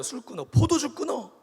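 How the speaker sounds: rising into a loud high order; mock scolding. Priest Eli orders Hannah off wine, building mock shout.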